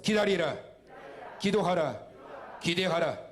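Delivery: punchy leader's call, word by word; emphatic call-and-repeat. Shown as a demonstration. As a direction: drill each command with a strong falling end. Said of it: "자, 따라서 하세요".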